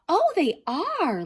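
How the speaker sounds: put-on high, proud little girl's voice. A narrator's reading. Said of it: "said proudly".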